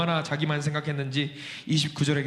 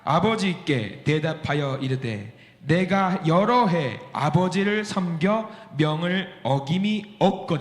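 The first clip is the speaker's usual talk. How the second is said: slow, measured scripture read; much slower than usual. Acted. Preacher reading the verse to the congregation, slow and measured. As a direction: read the verse slowly and deliberately.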